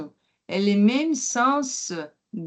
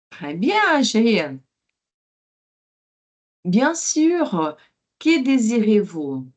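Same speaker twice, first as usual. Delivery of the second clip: lightly voiced waiter. Teacher plays waiter.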